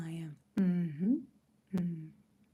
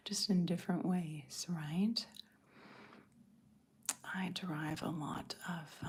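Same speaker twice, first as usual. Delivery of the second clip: ASMR whisper; 2 semitones lower than usual. Real, not acted. Whispering to her livestream viewers about motherhood. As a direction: hush it like an ASMR video.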